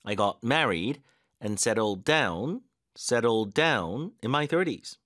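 teacher's drill, key words stressed; stressed practice reading. Shown as a demonstration. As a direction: stress on married and down. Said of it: "힘 어디 넣어야 되는지 느껴지시죠".

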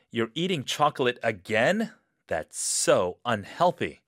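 loud nagging reproach. Acted. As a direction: scold them for the chocolate. Nagging cue for role-play.

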